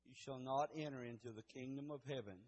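hushed Bible reading before prayer; solemn scripture reading. Real, not acted. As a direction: read the verse reverently, letting it sink down. Reads scripture before praying.

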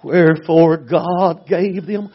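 slow, weighty recital; very slow solemn reading; solemn scripture. Real, not acted. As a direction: intone it like scripture.

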